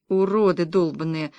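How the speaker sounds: ordinary delivery, nothing marked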